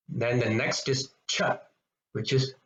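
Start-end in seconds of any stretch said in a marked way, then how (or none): 1.3-1.6 "Cha" with a strong puff of air; Mahaprana. Shown as a demonstration. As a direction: push breath out after the "Cha". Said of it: "Mahaprana 'cause you're giving more emphasis".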